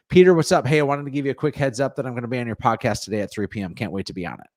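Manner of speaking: animated sample voice note, greeting punched; inflected voice message. Shown as a demonstration. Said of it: "You hear the inflection in my voice".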